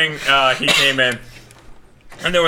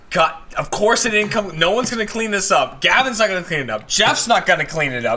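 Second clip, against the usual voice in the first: mock grumbling; 4 semitones higher than usual. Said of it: "he's just like".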